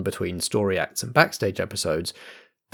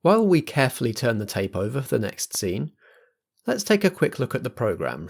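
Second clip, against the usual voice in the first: camp host voice; gently but firmly, like a compere; theatrical compere; 3 semitones higher than usual. Acted. Compere persona addresses audience.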